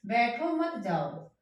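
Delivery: बैठो set off from मत जाओ; break after बैठो. Shown as a demonstration. Teacher repeats the first reading for students, break after बैठो. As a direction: separate बैठो, group मत with जाओ. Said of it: "ऐसे कह दें".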